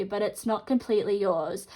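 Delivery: numb half mouth; talking through a numb mouth; numb from the dentist. Real, not acted. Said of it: "with my numb mouth".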